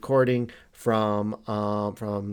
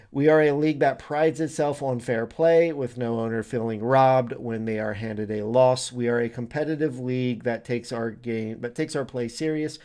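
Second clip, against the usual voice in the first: reading out an official statement; slightly raised, declarative reading voice; formal read-aloud. Acted. Reads out the league philosophy.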